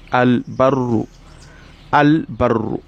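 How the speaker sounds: Al-Barru with a distinct l before the b; clear lam. Shown as a demonstration. Teacher demonstrating the clear lam to students. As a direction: let the l of Al-Barru ring out clearly. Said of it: "The Lamun comes out clearly".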